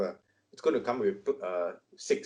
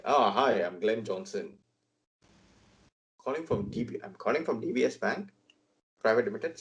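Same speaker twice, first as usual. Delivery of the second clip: put-on light South Asian accent, bank caller; a hint of a South Asian accent. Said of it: "Very heavy South Asian accent".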